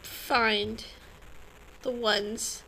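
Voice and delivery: hiccuping mid-sentence; hiccups. Real, not acted. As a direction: gasps of a hiccup between words. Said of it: "I have the hiccups".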